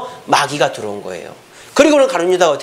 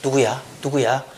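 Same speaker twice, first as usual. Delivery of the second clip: disciples whispering; 5 semitones lower, 6 dB quieter than usual. Acted. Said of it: "막 수근수근 할 거 아니에요".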